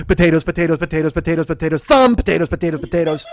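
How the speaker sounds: gobble the words, spiking on "thumb"; chanted parody of greedy eating; mock frenzied eater. Callback imitating the gobbling dog.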